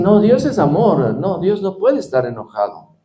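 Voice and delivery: lightly acted, insistent denial in a lifted voice; mock protest. Preacher mimics people who say God cannot be angry, mock protest. Voicing objectors who deny God's anger.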